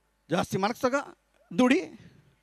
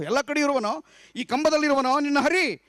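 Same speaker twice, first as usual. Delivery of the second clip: mocking demon king; 5 semitones higher than usual. Hiranyakashipu daring his son to show Hari in the pillar, higher mocking. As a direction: sneer the question like a tyrant. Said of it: "ಅಂತ ಕೇಳ್ತಾನೆ".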